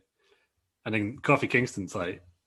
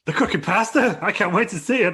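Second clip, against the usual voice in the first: high, loud, slowed hype-man voice; high, loud mock announcer gushing over pasta; Pat McAfee impression; 9 semitones higher, 6 dB louder than usual. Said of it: "So Pat McAfee's like".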